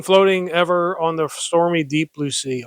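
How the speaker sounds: lively, declaimed verse reading; poem recitation. Acted. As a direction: read the verse out with theatrical emphasis. Reads a poem aloud.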